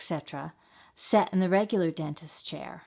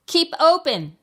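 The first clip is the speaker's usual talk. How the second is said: high, loud yelled order; 11 semitones higher, 11 dB louder than usual. A narrator's reading. Mouse dentist ordering the fox, yelling. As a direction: shout the command sharply. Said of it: "yelled Doctor DeSoto".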